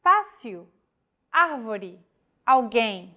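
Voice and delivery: Fácil, árvore, alguém, each stressing the accented vowel; Fácil FAH-seel, árvore AR-vo-ree, alguém al-GAIN; acute accent stress. Shown as a demonstration. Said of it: "stressed vowel in a word".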